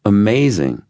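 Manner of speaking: high, emphatic wonder; amazed. A narrator's reading. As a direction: exclaim it with a big falling swoop. Says the expected word with emphasis.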